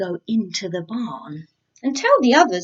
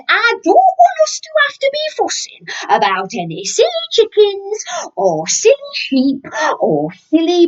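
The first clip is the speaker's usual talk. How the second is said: mock scream; 11 semitones higher, 5 dB louder than usual. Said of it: "had screamed".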